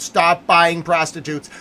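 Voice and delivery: slow, loud command; shouted plea. Acted. Streamer shouting at buyers, slow and loud. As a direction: hammer it home slowly. Acted message shouted at world.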